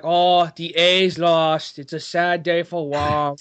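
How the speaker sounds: lightly voiced sad landlord; slow, drawn-out lament; Wong. Host imagines the landlord mourning a lost game, mock mournful. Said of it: "gets home and he's just like".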